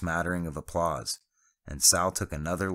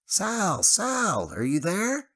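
high, louder call over the radio; anxiously calling his friend; 6 dB louder, much slower than usual. A narrator's reading.

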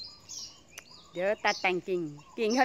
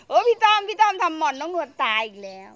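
higher and louder mock wail; mock lament; 7 semitones higher, 9 dB louder than usual. Teasing herself in the friend's voice, a mock wail. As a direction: whine like the friend whose mulberry died.

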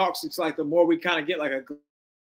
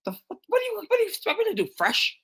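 mock Marvin. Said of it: "He was like".

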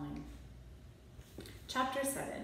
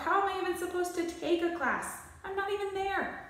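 put-on higher, indignant kid complaint; outraged protest; 11 semitones higher than usual. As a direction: argue back like a wronged child. Timmy protests to mother.

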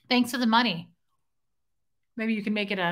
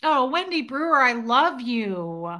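affectionate; 3 semitones higher, slower than usual. Real, not acted. Affection for a viewer needing hug.

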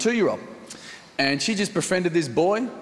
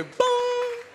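mock boom. Acted call on flight.

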